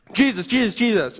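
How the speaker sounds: one last call with everything left; last desperate yell. Acted. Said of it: "you yell one last time".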